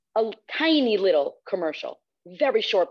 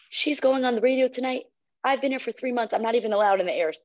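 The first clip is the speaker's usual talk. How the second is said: higher-pitched, imitated resentful complaint; mock indignation; 7 semitones higher than usual. Intern resenting the newcomer going on air, imitated indignation. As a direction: protest it like an affronted rival, mildly. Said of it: "like, so mad".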